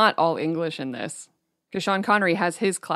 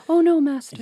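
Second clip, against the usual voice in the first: higher, louder mock American novice; lightly voiced whiny apprentice, higher; imitating Christian Slater; 9 semitones higher, 6 dB louder than usual. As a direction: send up a soft American monk. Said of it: "he just speaks an American accent, a little softer".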